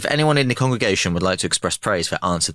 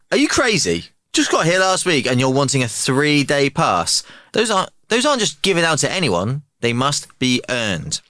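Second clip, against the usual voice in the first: stern shouting major; 5 semitones higher than usual. Acted. Major yelling at new recruit.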